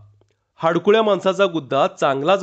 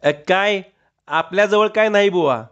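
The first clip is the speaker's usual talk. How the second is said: timid, faltering voice, pitched up; a nervous, higher mumble; hesitant; 4 semitones higher than usual. A narrator's reading. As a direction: shrink back as you deny it. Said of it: "बिचकत म्हणाला".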